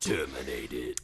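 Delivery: low, soft whisper; hushed echo. Pretend. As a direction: echo it in a mock-secretive whisper. Host echoes the hushed spoiler.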